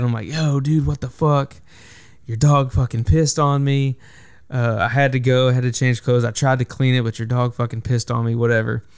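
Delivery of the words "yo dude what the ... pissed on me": mock anger. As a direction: pretend to be mad at your friend. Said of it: "trying to act mad".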